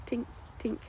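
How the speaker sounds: whispered tiny "tink, tink" engine ticks; faint tinking. Retold or imitated. Driver imitating the faint engine noise she heard, whispered "tink". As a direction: breathe out two tiny metallic "tink" sounds.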